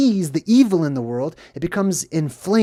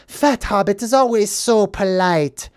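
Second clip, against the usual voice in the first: raised-pitch sarcastic imitation; mock sarcastic; 4 semitones higher than usual. Deformed hobbit calls his accuser polite, mock sarcastic. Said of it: "saying that he's not polite".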